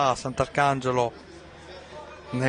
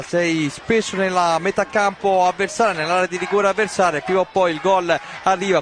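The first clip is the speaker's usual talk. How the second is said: excited commentary; 4 semitones higher than usual. Real, not acted. Excited recap after goal.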